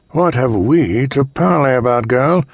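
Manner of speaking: cold rasping evil emperor. Acted. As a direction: toss the question off with contempt. Emperor mocks Adara.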